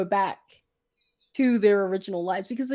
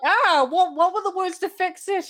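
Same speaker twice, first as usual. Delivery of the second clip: high, flustered fairy godmother; high scatterbrained fairy voice; 4 semitones higher than usual. Retold or imitated. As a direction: play her panicking for the spell.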